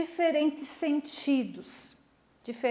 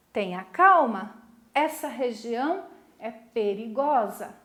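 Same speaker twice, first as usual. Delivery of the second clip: warning; 3 dB louder than usual. Shown as a demonstration. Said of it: "Um chamado de atenção, é uma advertência".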